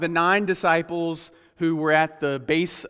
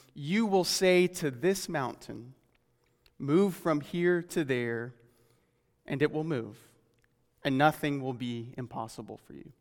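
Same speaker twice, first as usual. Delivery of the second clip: scripture reading; 3 dB quieter than usual. Acted. Quotes scripture aloud.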